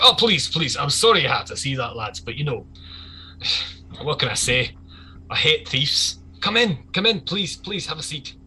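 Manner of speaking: lightly voiced boss, falsely genial welcome; apologetic gang boss. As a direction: usher guests in with an apology. Game master plays apologetic gang boss.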